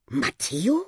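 surprised question, rising at the end; astonished. Acted. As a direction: ask the name in disbelief. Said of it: "staunte er". (erstaunte Frage)

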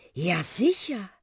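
high, slow, delighted aunt voice; Aunt Uschi reminiscing. A narrator's reading. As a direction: beam as you remember the town. Aunt Uschi remembers happily.

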